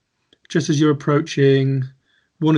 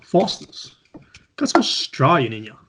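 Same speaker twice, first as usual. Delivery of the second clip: lightly done Australian accent; a slight Australian accent attempt. Shown as a demonstration. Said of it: "That's my best".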